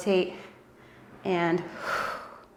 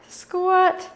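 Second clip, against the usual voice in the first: energetic cue; 11 semitones higher than usual. Real, not acted. Coach cueing the squat.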